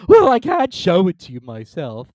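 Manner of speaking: high, loud weepy voice; weepy Mock Turtle. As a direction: wail like a sad creature.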